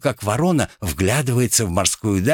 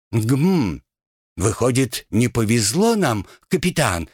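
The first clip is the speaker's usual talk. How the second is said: husky mock voice; 4 semitones higher than usual. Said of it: "хрипло спросила Локон".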